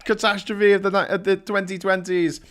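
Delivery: imagined grandchild questioning the vlogger; grandkid asking. Retold or imitated. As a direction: play a reproachful grandchild. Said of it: "easier explain to the, to the grandkids".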